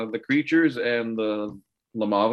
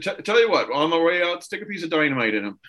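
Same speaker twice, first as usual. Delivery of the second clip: in-character quip; 7 semitones higher, faster than usual. Acted. Quentin's quip to the doctor.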